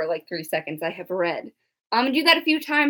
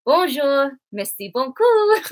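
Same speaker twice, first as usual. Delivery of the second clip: French phrases; 3 semitones higher, slower than usual. Shown as a demonstration. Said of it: "here's what I can say in French".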